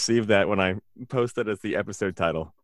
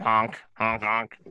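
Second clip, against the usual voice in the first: silly clown honk; 4 dB quieter, much slower than usual. Pretend. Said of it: "What does it sound like when you squeeze".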